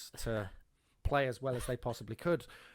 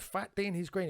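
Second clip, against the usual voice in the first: higher bemused read-out; puzzled repeat; 6 semitones higher than usual. Retold or imitated. Reading graffiti aloud to his mate, bemused. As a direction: repeat it, baffled. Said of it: "and I went".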